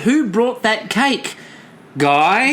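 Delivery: "Who brought that cake? Guy?" slow with pause; slow questioning. Retold or imitated. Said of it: "No, we said".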